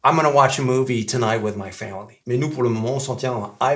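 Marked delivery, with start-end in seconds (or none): 0.0-2.2 "I'm gonna" slurred into "I'mana watch a movie"; go left out. Shown as a demonstration. Teacher showing the version without go, heavily reduced. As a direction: run "I'm gonna" together with the g dropped. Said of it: "ils prononcent même pas le go".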